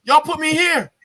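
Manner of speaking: refusing to budge, voice rising to a yell; angry refusal. Retold or imitated. Defiant soldier refusing to leave the condemned building. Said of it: "I say".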